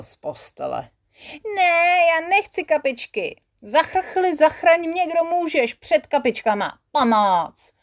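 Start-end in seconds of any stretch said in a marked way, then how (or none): 1.6-7.7 much higher, tearful pleading cry for help; panicked crying out. Acted. Sick Hubka flees the eye drops, crying in high panic. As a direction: wail as if the eye drops were torture. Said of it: "Zvolal Hubka Pupka".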